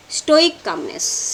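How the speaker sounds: slow, deliberate phrase for notes; slow dictation. Shown as a demonstration. Teacher dictating notes to the class, slowly. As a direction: say it slowly so students can copy it. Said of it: "Take these notes".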